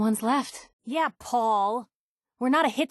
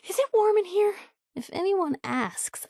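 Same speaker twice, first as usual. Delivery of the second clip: flustered; 9 semitones higher than usual. Acted. Flustered by a singer.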